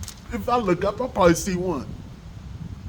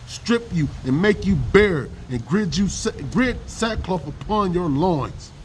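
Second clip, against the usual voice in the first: solemn, measured Bible reading; scripture reading. Acted. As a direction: read it like a preacher warning the women. Reading scripture aloud, preacher style.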